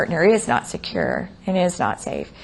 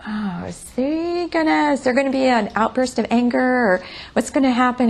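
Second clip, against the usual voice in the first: higher, worried inner voice of a client; mildly anxious; 4 semitones higher than usual. Acted. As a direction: act out a touch of anxious dread. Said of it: "it made me kinda anxious".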